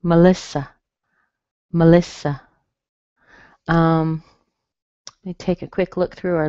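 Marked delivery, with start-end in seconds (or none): 0.0-2.4 "Melissa" as muh-LISS-uh; weak, strong, weak in "Melissa"; Melissa with schwa. Shown as a demonstration. Teacher modelling the pattern, schwas in "Melissa". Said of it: "but it's a schwa".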